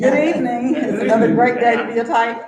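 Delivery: speaking through a face mask; muffled through a mask. Real, not acted. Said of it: "Sorry, it's muffled".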